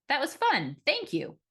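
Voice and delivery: sincerely. A narrator's reading. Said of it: "I said sincerely".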